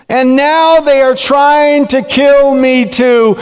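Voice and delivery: hammed-up prophet's rant. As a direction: rail at God in self-pity. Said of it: "Elijah goes into this rant".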